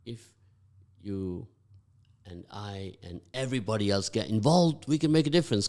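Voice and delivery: rally the listeners to act; rousing appeal to the community; rallying call. Real, not acted. Host rallying listeners to get involved.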